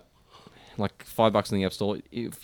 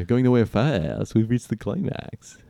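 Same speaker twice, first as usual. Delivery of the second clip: put-on slow reading in a wobbly French accent; failed French accent; slower than usual. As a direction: attempt French, drift into American. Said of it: "putting a Christopher Walken on the end".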